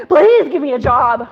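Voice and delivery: drawn-out, slow plea; hammed-up pleading; mock begging. Job seeker to interviewer, mock begging.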